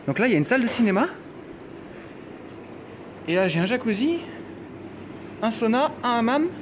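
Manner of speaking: thrilled tour of the spa; excited. Real, not acted. Excited spa tour listing rooms.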